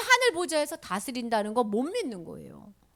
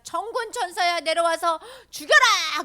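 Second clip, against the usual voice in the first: raised, slowing shout of command; commanding call; 5 semitones higher, 6 dB louder than usual. Acted. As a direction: call down an order to the angels. Voices Jesus commanding angels.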